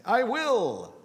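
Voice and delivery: high, loud, eager yes; overly keen dutiful son; eager "I will". Pretend. Preacher voicing the second son's eager promise, loud and high. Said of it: "it's just kind of fun to say".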